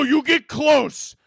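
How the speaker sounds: high, drawn-out mock shout; shouting at the sky. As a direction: call it out slowly to the sky. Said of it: "I start shouting at the sky".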